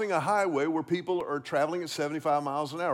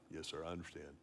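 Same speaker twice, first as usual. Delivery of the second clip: very low, hushed little reply; imitated meek child; 14 semitones lower, 19 dB quieter, faster than usual. Scolded son answering his dad, meek and hushed. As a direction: answer small and obedient, barely audible. Boy accepts his father's correction.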